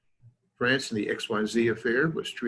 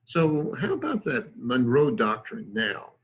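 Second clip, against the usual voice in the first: put-on mildly patronizing old lion; condescending. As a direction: needle the upstart with mild condescension. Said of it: "in a very condescending way".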